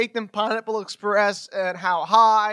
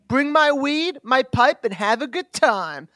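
stoner voice; 2 semitones higher than usual. Pretend. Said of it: "I'm smoking weed voice".

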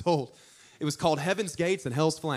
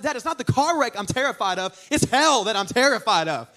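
mock-terrified kid correcting dad, leaning hard on "hell"; raised, insistent child's protest stressing "hell"; emphatic protest; 5 semitones higher, 5 dB louder than usual. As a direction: punch "hell" loud against "car wreck".

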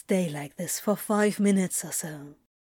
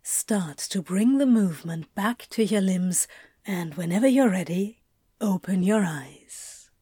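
soft and low. Acted. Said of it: "speaking to him in a soft, low voice".

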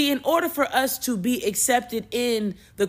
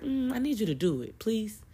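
gentle plea; 2 semitones higher, 6 dB quieter than usual. Retold or imitated. God voiced pleading gently.

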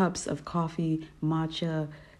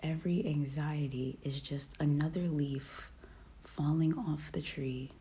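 soothing, unhurried meditation guide; calm, relaxing voice. Real, not acted. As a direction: lead a peaceful meditation, leaving room to breathe. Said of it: "my calm, relaxing voice".

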